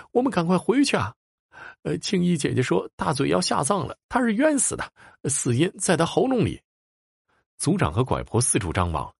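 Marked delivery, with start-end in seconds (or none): 0.1-6.6 high, urgent pleading; urgent child's cry. A narrator's reading. Die'er urging the chief to hurry back, urgent high cry. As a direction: hurry them home in a rush. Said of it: "蝶儿突然喊叫".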